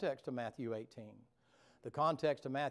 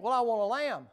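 the Lord replying; 9 semitones higher, 11 dB louder than usual. Acted. Lord's reply voiced.

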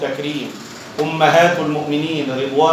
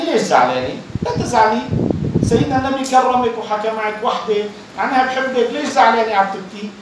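higher, tender comforting voice; consoling; 6 semitones higher than usual. Retold or imitated. Aisha comforting Fatima who is crying, gently consoling. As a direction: soothe her like a friend wiping tears. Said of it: "يعني كأنها تواسيها".

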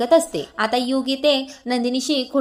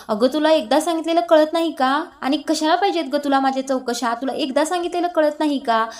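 retold angry yelling; 3 semitones higher than usual. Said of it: "त्यावेळेला योग जास्तच चिडतो".

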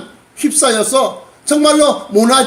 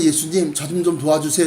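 softer, lower, polite request; quiet plea; 6 semitones lower, 6 dB quieter than usual. Acted. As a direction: ask for help quietly and discreetly. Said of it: "예수님께 조용히 찾아가서". (조용하고 낮은 부탁)

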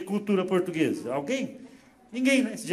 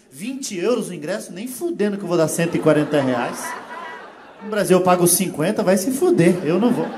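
mock-indignant Brazilian balking at the price, building louder; indignant refusal; 6 dB louder than usual. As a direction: refuse it loudly, as if outraged. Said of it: "o brasileiro olhava e pensava".

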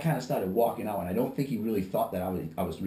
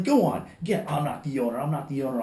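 reenacted dismissal; 4 semitones higher than usual. Reenacting throwing a customer out.

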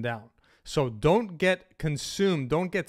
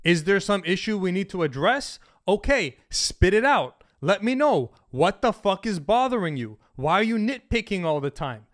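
firm confrontation; 3 semitones higher, 3 dB louder than usual. Retold or imitated. Confronting a nitpicking girlfriend, rising firm demands. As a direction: stand your ground and make her talk. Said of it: "I say".

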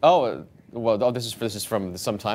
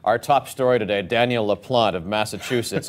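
serious news anchor voice. Pretend. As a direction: deliver it like top-of-the-hour news. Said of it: "I'm reading them in serious news anchor voice".

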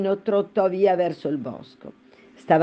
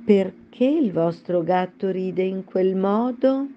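timid question; 3 semitones higher, slower than usual. Acted. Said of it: "provò allora a chiedere Alice timidamente".

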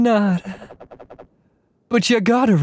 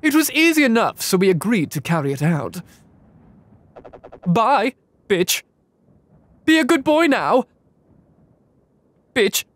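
character voice; 4 semitones higher than usual. Acted. Voicing game character lines.

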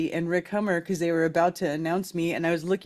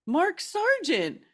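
slow emphatic reply; 9 semitones higher, much slower than usual. Retold or imitated. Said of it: "And I said".

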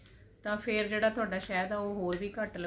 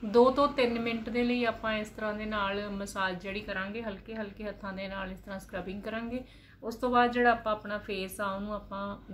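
hands pressing on cheeks; speaking with face pack on; talking while massaging face. Real, not acted. Seen 0: Hands rub cheeks and chin; mouth stays uncovered, face pack on.

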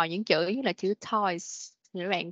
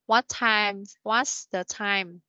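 slow model question; slower than usual. Shown as a demonstration. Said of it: "Ví dụ".

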